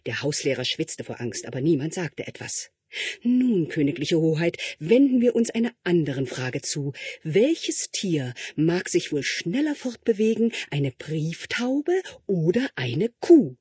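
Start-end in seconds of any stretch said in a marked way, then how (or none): 3.2-13.6 lightly voiced tutor, a touch higher and oily; butter up the prince with strained politeness; fawning tutor. Tutor fawning over the prince in his exam, lightly voiced. Tutor asks next question.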